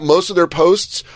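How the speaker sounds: ordinary talk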